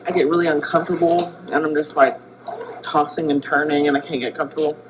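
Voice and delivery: talking while chewing gum; words round a wad of gum. Real, not acted. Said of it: "Sorry, I've gum in my mouth".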